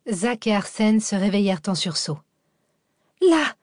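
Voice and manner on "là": cri aigu et fort d'une femme affolée; cri hystérique. A narrator's reading. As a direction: hurler de terreur en désignant le parc. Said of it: "hurlait hystérique". (la serveuse hurle, hystérique, en montrant le corps)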